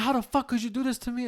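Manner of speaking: high, held-back imitation of screaming; mock screaming. Retelling the neighbour's fight with boyfriend, mock screaming. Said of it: "the woman was basically screaming".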